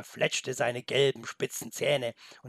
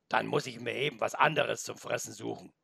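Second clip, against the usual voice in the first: grumbling wolf; 2 semitones lower than usual. Acted. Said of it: "brummte noch".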